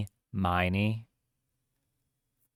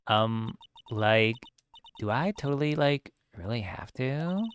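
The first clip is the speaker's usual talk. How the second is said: put-on valley girl voice; 2 semitones higher than usual. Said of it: "a valley girl".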